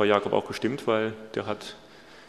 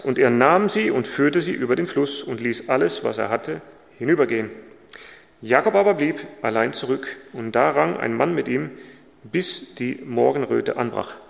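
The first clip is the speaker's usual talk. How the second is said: measured Bible reading voice; solemn reading of scripture. Acted. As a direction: read the verses out steadily. Reads Bible passage aloud.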